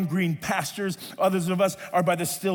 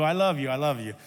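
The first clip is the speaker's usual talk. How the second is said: Hugo's voice; 4 semitones lower than usual. Retold or imitated. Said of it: "his voice is like this".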